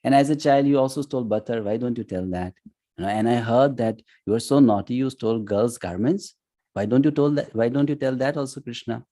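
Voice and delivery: a mild playful needle; joking tease. Retold or imitated. Arjuna pulling Krishna's leg at family gatherings, mild teasing. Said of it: "just in joking manner".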